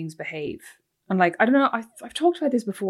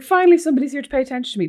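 fast, higher, louder through half-faked tears; mock crying relief; 6 semitones higher, 6 dB louder, faster than usual. Mother bursting into tears when husband walks in, fast and loud. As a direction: blurt it out as if finally rescued. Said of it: "then I burst out crying".

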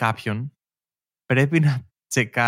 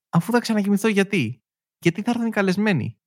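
put-on whiny kid; 8 semitones higher than usual. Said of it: "έχουν ρωτήσει, την Ελληνίδα μάνα".

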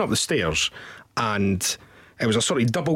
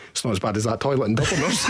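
laughing catchphrase; 3 semitones lower, faster than usual. Retold or imitated. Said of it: "we're always like".

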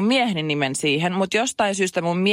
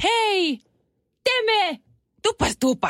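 high, eager mock hail across the door; imitated calling out; slower than usual. Staff calling Teemu in from the embassy door, high eager hail. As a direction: call his name up high like an overjoyed greeter. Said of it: "Teemu huudettiin sieltä ovelta".

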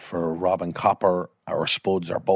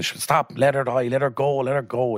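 higher-pitched imitation of a protesting daughter; mild acted pleading; 5 semitones higher, slower than usual. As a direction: beg him to stop, lightly acted. Daughter begs at deathbed, retold.

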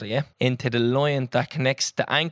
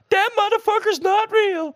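imitating viral girl; 4 dB louder, slower than usual. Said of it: "going around on Twitter".

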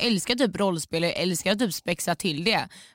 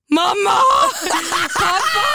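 high, loud cry for parents; panicked shout for mum and dad; mock scream for help; 12 semitones higher, 6 dB louder, slower than usual. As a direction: yell it out like a scared kid. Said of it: "Då jag var så här".

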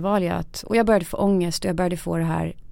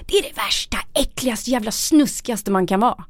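mock yell, pitched up; retold yell; 4 semitones higher than usual. Woman recalling shouting at her therapist, a mild mock yell. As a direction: spit out the disgust in a half-shout. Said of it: "Bara skriker jag".

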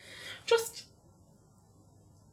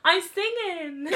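slow, giggly insistence; the kid claiming innocence through laughter; retelling the daughter's giggly excuse; laughing cheeky child; 7 semitones higher, much slower than usual. Retold or imitated. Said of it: "she'd go".

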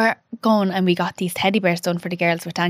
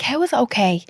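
higher, pleading disbelief, near tears; anguished protest; 5 semitones higher than usual. Retold or imitated. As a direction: cry out against the news, voice pitched up. Retelling her anguished protest to husband.

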